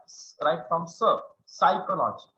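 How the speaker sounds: psychology begun straight on the "s" sound; silent P. Shown as a demonstration. Teacher showing students the P is not pronounced, silent-P psychology. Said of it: "We have to pronounce it as".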